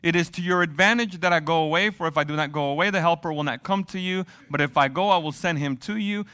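measured reading of scripture; scripture read aloud. Acted. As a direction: read the passage steadily to the church.

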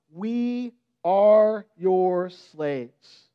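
very slow, drawn-out submission; humble plea. Retold or imitated. Brothers bowing before Joseph.

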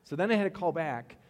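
exasperated. Real, not acted. Frustrated customer service story.

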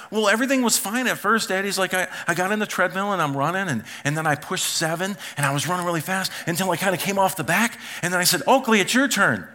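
a hint of an earnest little boy; young son explaining. Son explains to dad what happened, lightly imitated.

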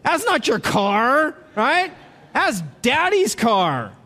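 mocking a teen in daddy's Porsche, loud and scoffing; scoffing retort. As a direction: scoff at the rich kid loudly. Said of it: "What do you say?".

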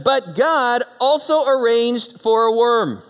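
loud, slow, rising preacher's cry; old church preaching. Acted. Preacher imitating old churches announcing God's worm with fervour. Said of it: "in some of those old churches".

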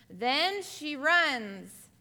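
slow, loud and drawn out; slow dramatic telling; dramatic emphasis. Acted. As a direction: stretch each word for drama. Dramatic storytelling to class.

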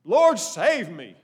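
slow and loud, each word weighted; short urgent plea. Shown as a demonstration. Preacher shows the sinking man's loud slow plea. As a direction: cry it out slowly and firmly, loud. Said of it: "He didn't use a lot of words".

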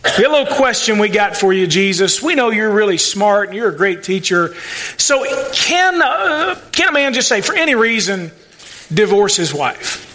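butter him up, then spring the trick; mock sly Pharisees. Preacher voicing the Pharisees flattering Jesus, mock sly tone. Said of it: "a kind of some trickeration going on here".

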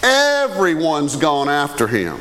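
slow and weighty, let each word land; slow emphatic repeat. Shown as a demonstration. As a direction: drag it out to press the point home. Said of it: "Listen to that".

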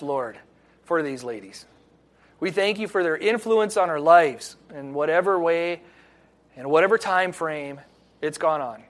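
earnest pastoral prayer, steady and reverent; closing prayer. Acted. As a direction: pray over the ladies with reverent thanks.

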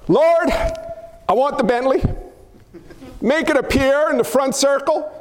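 demanding mock prayer; mock greedy prayer. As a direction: pray like a spoiled kid wanting a car. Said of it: "Watch this".

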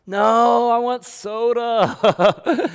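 very high, loud, drawn-out wail; child's tantrum. Acted. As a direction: throw a hammed-up tantrum at Dad. Acts child refusing dad's water.

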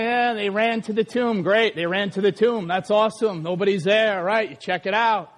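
low, offhand, unimpressed mumble-through; mock indifference, pitched low; blasé reader. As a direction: imitate someone skimming the passage without interest. Blasé Bible reader, acted.

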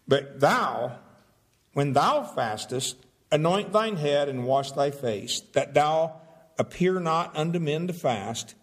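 measured King James reading; scripture reading. Acted. Pastor reading verses to congregation, solemn reading. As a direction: read the verses with solemn weight.

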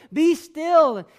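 firm fatherly rebuke; stern father. Retold or imitated. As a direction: lay down the law to a tantruming son. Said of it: "I have to look and say".

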